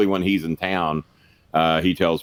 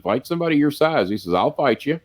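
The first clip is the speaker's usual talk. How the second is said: challenging; 8 semitones higher than usual. Retold or imitated. Retold challenge to a fight.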